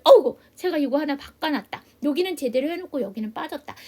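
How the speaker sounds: sudden loud, startled 어우; surprised at own slip. Real, not acted. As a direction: catch your own mistake with a jolt. Teacher notices own mistake. (자기 실수에 깜짝 놀라며)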